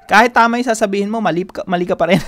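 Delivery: quick, loud demonstration of a harsh tone. Shown as a demonstration. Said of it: "Yung mataas yung tono".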